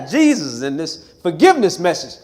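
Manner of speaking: normal talking voice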